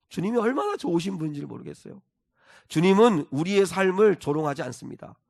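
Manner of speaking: ordinary delivery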